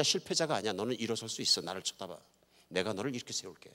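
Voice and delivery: soft voice of a comforting God; quiet, settling encouragement; gentle reassurance. Acted.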